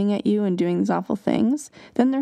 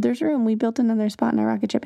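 fast, eager announcement; excited kids; 3 semitones higher, faster than usual. Retold or imitated. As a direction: rush to share the good news. Kids calling to left-out child.

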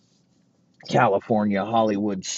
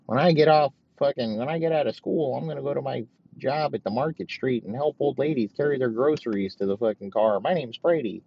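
lightly voiced eager schoolboy, higher; a hint of a goody-goody teen boasting; mock wholesome kid; 5 semitones higher than usual. Comic mocking Brady as a clean-cut kid, higher eager voice.

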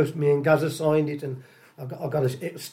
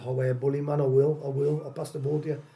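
a lightly put-on, badly done Geordie accent; half-hearted Geordie impression, barely shifted; rubbish Geordie accent; 7 dB quieter than usual. Retelling Gazza's reply in a bad Geordie accent. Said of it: "That was a rubbish Geordie accent".

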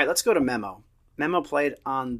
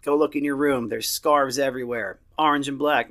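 louder, playful mock anger; dad teasing daughter for cheering the rival, louder mock scolding; 5 dB louder than usual. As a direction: pretend to throw her out of the room. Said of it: "And I was like".

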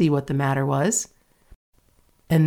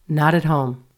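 monotonous. Acted. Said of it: "the same monotonous response".

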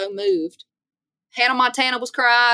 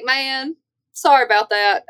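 mock apology; 5 semitones higher than usual. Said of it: "I was like".

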